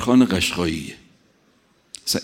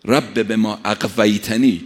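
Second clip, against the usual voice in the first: slow emphatic recitation; slower than usual. Acted. Verse repeated with weight.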